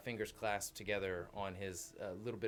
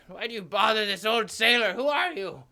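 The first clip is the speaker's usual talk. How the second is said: put-on high, loud sing-song old sailor; Tinker Bell voice; 11 semitones higher, 13 dB louder than usual. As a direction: sailor accidentally sounding like a fairy. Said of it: "didn't intend to sing Sound Like Tink".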